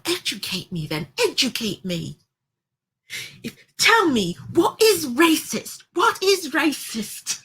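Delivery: shrill imitation of a furious demand; imitating angry outburst. Imitating Sharon yelling at Cheryl, high and tearful. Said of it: "I can't do her voice".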